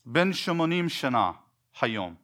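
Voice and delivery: "Ben shemonim shana hayom" said as Hebrew with ben, shemonim, shana, hayom; Hebrew phrase. Shown as a demonstration. Teacher showing the set Hebrew formula, Hebrew pronunciation. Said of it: "That's how you say it in Hebrew".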